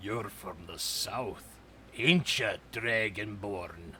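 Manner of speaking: growled throughout, low and rumbling. Narrating a man addressing the Dragonborn, in a low growling voice. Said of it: "just growls in this low voice".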